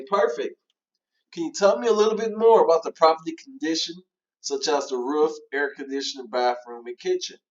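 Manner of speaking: upbeat follow-up. Shown as a demonstration. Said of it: "where you should show excitement".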